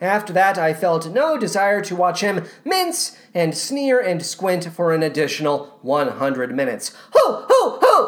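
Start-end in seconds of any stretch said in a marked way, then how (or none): 7.1-8.1 very high, affected, awful squeaky put-on voice. Mocking how he sounds while he minces and sneers, Rex impression. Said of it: "That's how he sounds. He's doing this awful voice".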